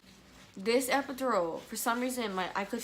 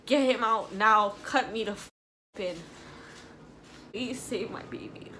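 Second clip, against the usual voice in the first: panicked mother demanding a C-section; retold frantic yelling; 5 dB louder than usual. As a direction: yell at them to hurry, then beg. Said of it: "And I was like".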